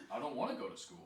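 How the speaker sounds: a touch of acted anger; mildly angry. Shown as a demonstration. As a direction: model a mild angry refusal. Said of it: "Bit more angry".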